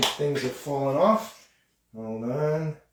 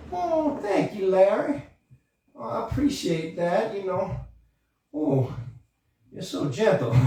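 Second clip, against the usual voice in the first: ballerina puppet; 5 semitones higher than usual. Acted.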